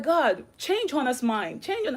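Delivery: slow, soft reenacted prayer; praying. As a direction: plead quietly with God. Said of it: "I was praying".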